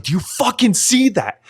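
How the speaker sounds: high, awed outburst; amazed at the crowd singing for him; imitating an overwhelmed singer. Podcaster retells a vocalist moved by fans, high awed outburst. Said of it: "And he's like".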